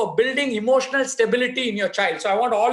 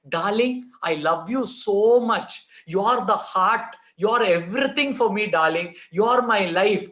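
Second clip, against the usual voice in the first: slow, drawn-out declaration of love; affectionate father. Shown as a demonstration. Father to his child after a shouting episode, affectionately. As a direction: lay on the endearments slowly, stretching the words. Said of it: "after the shouting episode ... I say".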